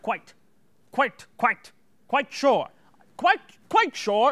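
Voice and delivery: quite, quite sure, biting harder each time; biting into the words. Shown as a demonstration. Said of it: "try sort of biting into your words more".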